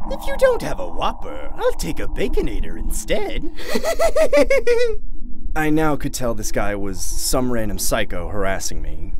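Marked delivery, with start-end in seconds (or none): 0.1-3.5 very high, taunting clown voice; high-pitched psycho clown; creepy clown. Acted. 3.6-5.5 very high, loud cackle; shrill, taunting clown laughter; maniacal clown cackle. Acted. Psycho clown taunting the worker.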